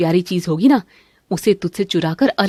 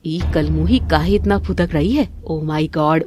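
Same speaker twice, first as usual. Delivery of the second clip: ordinary delivery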